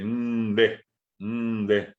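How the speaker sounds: nde said with a strong nasal onset; slow teaching emphasis on nde; emphasized nde. Shown as a demonstration. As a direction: lean hard on the n of nde. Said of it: "inclusive enfatizando así".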